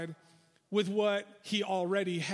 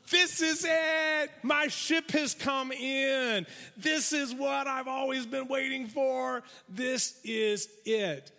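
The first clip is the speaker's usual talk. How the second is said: higher, slow triumphant glee; gleeful; 4 semitones higher than usual. Acted. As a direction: savor the long-awaited win. Inner joy of rich man.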